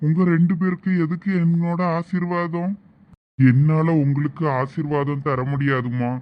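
solemn holy man. Acted. Holy man refusing a couple his blessing, slow and solemn. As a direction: refuse the blessing slowly and weightily.

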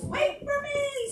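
squeaky high piglet voice, slow; high squeal. Acted. Adult reading to child, little pig squealing high. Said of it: "squealed little pink pig".

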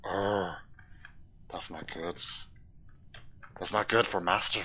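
quiet, creepy creature voice; Gollum. Acted. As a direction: play a wretched creature serving its master. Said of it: "my Gollum accent".

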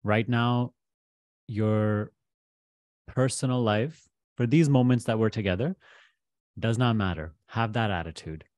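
measured guidance with long pauses; guided meditation. Real, not acted. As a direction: guide the listener gently into letting go, pausing between phrases.

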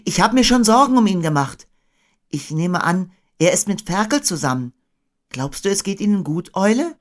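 put-on high-pitched worried boy; Christopher Robin. A narrator's reading. Boy worrying about Pooh, high-voiced. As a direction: voice a boy asking after his friends.

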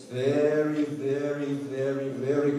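"very" drawn out slowly each time; emphatic repetition. Real, not acted. Performer warns the audience about Siberian winter, slow stress on "very". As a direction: stretch every "very".

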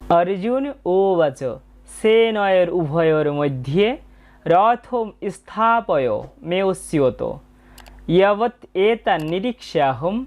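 slow, measured shloka reading, word by word; spoken verse recitation. Shown as a demonstration. Teacher reciting Arjuna's Gita verse for learners, slow careful recitation. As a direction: recite it carefully with pauses between word groups.

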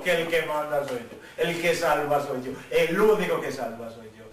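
low, deliberate declaration; divine authority. Retold or imitated. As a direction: lay down who is in charge, pitched low. Dios afirma su autoridad. (declaración grave de autoridad divina)

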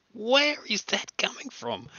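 high, slow, puzzled question. Retold or imitated. Hearing a squeak at home, slow high puzzlement. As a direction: wonder aloud where the noise comes from. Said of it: "And I'm like".

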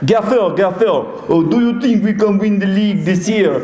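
put-on high, eager accented player; put-on player voice, pleading with the gaffer; Didier Drogba. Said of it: "So Drogba is".

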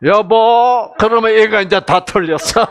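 calling out. Retold or imitated. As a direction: call him from another room. Wife calling from the bathroom. (멀리서 부르듯 크게)

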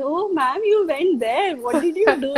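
mock knowing surprise, lightly put on; smug student. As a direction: playfully mimic students feigning innocence to their teacher. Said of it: "very smugly in the class".

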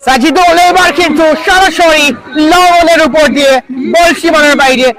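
lively live play-by-play; cricket commentary. Real, not acted. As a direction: call the match ball by ball. (Cricket ধারাভাষ্য)

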